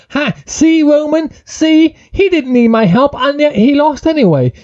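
high, whiny excuse-making voice; mocking Jey Uso. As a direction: pitch way up, pleading innocence. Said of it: "Jey was there to say".

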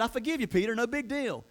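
high, offhand pardon; breezy forgiveness. Acted. Imagined casual forgiveness.

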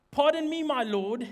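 courteous gentleman addressing his lord; lightly voiced, well-mannered gentleman; distinguished gentleman. Gideon politely greeting the angel of the Lord, distinguished gentleman. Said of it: "Such a distinguished gentleman".

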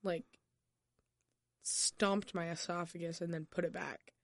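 lost voice, rough and strained; hoarse voice. Real, not acted. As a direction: speak with a hoarse, worn-out throat. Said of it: "that's why I sound like this".

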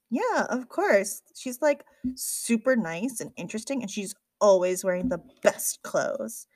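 lightly voiced girlish admiration, stretched opening; enthusiastic young library worker. Girl gushing about newcomer's grandma.

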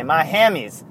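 light southern impersonation; a hint of southern accent; Rickey Henderson. Host quotes Rickey's favorite excuse, lightly southern. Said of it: "That's why I do the southern impersonation".

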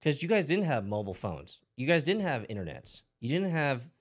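high, loud whiny protest; mock objecting critic. Podcast host mimicking critics of parents, high whiny protest. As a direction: play the indignant doubter cutting in. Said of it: "for those out there who might say".

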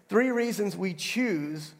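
"choose" drawn out slowly for emphasis; slow line landing firmly on "choose"; stress on choose. Shown as a demonstration. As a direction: lean on "choose" and stretch it. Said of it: "I'm emphasizing the word choose".

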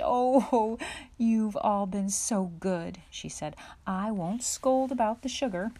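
laughing mother. A narrator's reading. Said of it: "Mother laughed".

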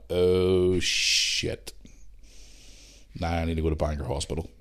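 breathy, sinking realisation; whispered oh shit; hushed dismay. Retold or imitated. Seeing the wound.

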